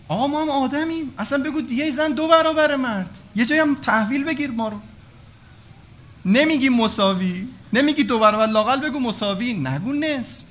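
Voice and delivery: complaining woman. Acted. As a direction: voice a woman demanding fair blood money from God. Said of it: "از زبون خانوما هم صحبت کنیم".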